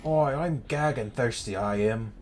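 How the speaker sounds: playful imitation of Manchester accent. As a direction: try a broad Manchester accent, falling away at the end. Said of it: "Learning Manchester phrases and accents".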